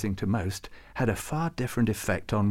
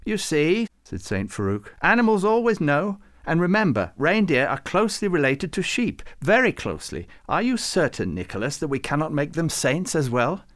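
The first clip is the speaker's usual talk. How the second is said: put-on high, eager old saint, louder; much higher, animated scholarly saint; Farouk; 6 semitones higher, 4 dB louder than usual. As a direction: press the point with fussy enthusiasm. Farouk pleads about the reindeer.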